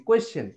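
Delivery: কোয়েশ্চেন as "koe-sen", no ch; common mistaken pronunciation. Shown as a demonstration. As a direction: soften the middle of কোয়েশ্চেন to s. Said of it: "আমরা কোয়েশ্চেন শিখে আসছি".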